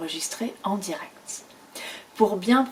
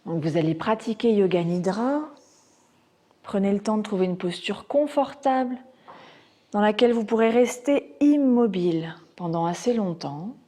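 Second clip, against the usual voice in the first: measured Yoga Nidra guidance with long pauses; guided relaxation. Acted. Teacher guiding students into Yoga Nidra, measured meditation voice.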